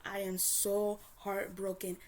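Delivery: slow, whispered fake sadness; sarcastic mock-sad whisper; mock heartbroken. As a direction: pretend to be crushed, dripping with sarcasm. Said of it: "Did she call you and say".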